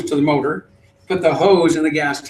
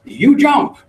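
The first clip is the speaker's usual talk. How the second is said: mock boatman order; 11 semitones higher, 6 dB louder than usual. Boatman orders him off boat.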